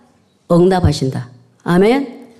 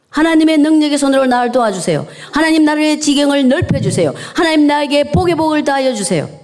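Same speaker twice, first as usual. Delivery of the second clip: raised, fervent prayer voice; 5 semitones higher than usual. Shown as a demonstration. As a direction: pray it out earnestly, pitched up. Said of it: "이걸 읽으면서 기도하세요".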